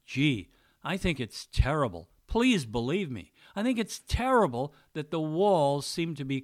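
straight-faced, fake heartfelt pity; mock sympathy. To a defensive liberal friend, fake sincere sympathy. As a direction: pretend to be sorry while hiding glee. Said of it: "Try to keep a straight face and say something like".

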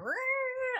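short high frustrated yell. Retold or imitated. Sliding on ice, short high frustrated yell. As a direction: yell as the car slides.

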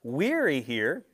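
preacher leaning on "Weary"; drawn-out stress on weary. Real, not acted. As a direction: stretch "Weary" to make the point. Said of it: "come on, work with me here".

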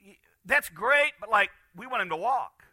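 mock eager friends, high and loud; friends' voice. Friends of the paralyzed man complaining to Jesus. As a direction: voice the friends, a bit put out.

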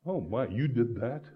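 soft, hushed oh my of a worried grandma; fretting grandmother. Retold or imitated. Grandson imitating his grandmother's soft fretting. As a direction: murmur it wringing your hands. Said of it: "She'd go, And she'd wring her hands".

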